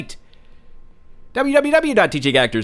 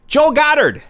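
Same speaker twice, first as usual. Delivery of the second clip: announcer; 10 semitones higher, 5 dB louder, slower than usual. Acted. Announcing guest.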